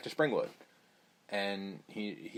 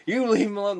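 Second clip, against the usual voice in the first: higher, louder mock Southern man, leaning on Ethel; Southern drawl; 7 semitones higher, 5 dB louder than usual. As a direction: play the Southern yokel. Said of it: "Tom Arnold, Captain Southern".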